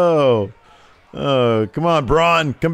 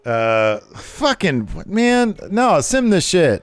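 lower, gruff wrestler voice; a brute wrestler voice, a bit lower; Braun's voice; 7 semitones lower, much slower than usual. Acted. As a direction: growl it like a big brute wrestler. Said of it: "I'll do his voice".

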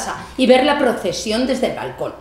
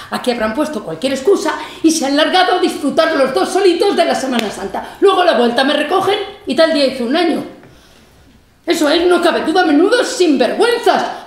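louder and higher, building into bitter laughing fury; growing indignation; 5 semitones higher, 4 dB louder than usual. Acted. Old mother fuming at being abandoned, louder and higher. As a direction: work yourself up into a spiteful outburst.

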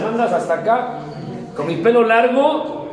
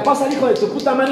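fast, rude bark of an order; mock rough welcome; 3 semitones higher, faster than usual. Old rehab guards greeting new inmate, fast and rude. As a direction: shove the newcomer in with insults.

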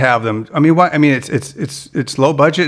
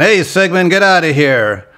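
lightly voiced cartoon monster brother; a hint of a character voice, shooing someone off; Blurp; 4 semitones higher than usual. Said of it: "Blurp had more of the".

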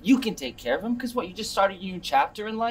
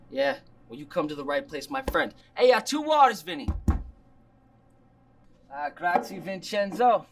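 chummy put-on Italian-American accent; phony Italian-American goodfella talk; fake Italian accent. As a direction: play the Italian restaurateur, accent and all. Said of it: "Not stupid fake accent".

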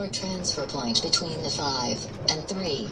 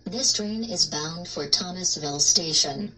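train announcement; 3 semitones lower than usual. Acted.

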